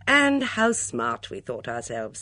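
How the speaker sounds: put-on a mild sigh over old memories; slow, loud first words sinking into a sigh. A narrator's reading. Miss Blacklock recalls how smart they felt, sighing. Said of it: "said Miss Blacklock with a sigh".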